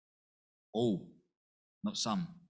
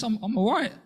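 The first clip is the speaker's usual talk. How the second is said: mock dismissive; 11 semitones higher, 5 dB louder than usual. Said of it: "mock unbeliever brushing off".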